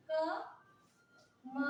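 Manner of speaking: क-म-ल syllable by syllable, very slow; spelled out slowly. Shown as a demonstration. Teacher spells the word for the class, very slow. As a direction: break कमल into slow syllables. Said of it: "कमल कैसे लिखेंगे".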